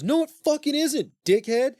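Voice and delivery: high, hammed-up furious lament; anguished host. Host telling the king the dog was family, anguished. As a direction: wail in loud mock outrage.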